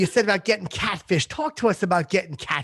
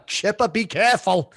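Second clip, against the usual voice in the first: imitating his mother; 3 semitones higher than usual. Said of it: "she says that all the time".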